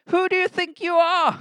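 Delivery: high, loud scoffing in English; a scornful who-do-you-think-you-are; mock indignation. Preacher mocking a listener's scoff at Paul. Mocking reaction to Paul's boast.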